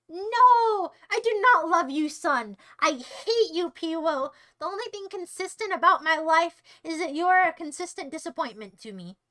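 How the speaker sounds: disown the son with hammed-up outrage; mock angry father. Father telling Piwo he hates him, mock anger.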